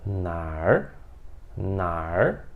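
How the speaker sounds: nar said slowly with a curled R at the end; Beijing erhua. Shown as a demonstration. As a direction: curl the tongue on the end of nar. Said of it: "eles utilizam esse R no final".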